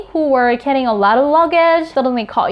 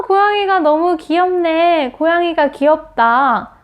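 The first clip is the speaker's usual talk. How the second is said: delighted admiration; 4 semitones higher, much faster than usual. Acted. Admiring a friend's cute cat.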